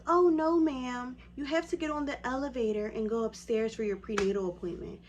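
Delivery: high, loud, breezy front-desk voice; brushing-off receptionist. Retold or imitated. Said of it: "She says".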